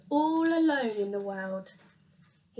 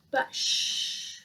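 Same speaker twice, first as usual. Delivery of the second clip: hush. A narrator's reading. Narrator hushes listeners.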